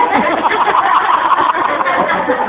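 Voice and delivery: big high burst of laughter; loud high laugh. Real, not acted. Preacher laughing at his own slip, loud high laugh.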